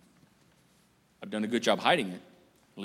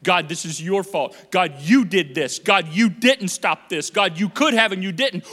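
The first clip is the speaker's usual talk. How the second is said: blaming God; 5 dB louder than usual. Retold or imitated. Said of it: "you're blaming God".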